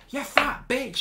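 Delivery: high, taunting schoolboy insult; imitating a boy's taunting jibe; mock insult. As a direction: throw it up high like a kid lashing out. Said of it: "he starts going".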